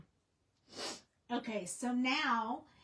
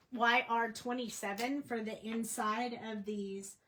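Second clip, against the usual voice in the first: hiccups; 4 dB louder than usual. Real, not acted. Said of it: "I'm sorry, I have the hiccups".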